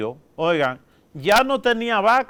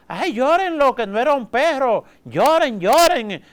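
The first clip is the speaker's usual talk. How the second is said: higher, louder mock wail urging everyone to cry; wailing mourner; 6 semitones higher, 4 dB louder than usual. A woman at a wake urging everyone to cry, in a higher, louder mock wail. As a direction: ham up a loud busybody stirring the mourners to weep. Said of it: "llega una señora de yo no sé dónde".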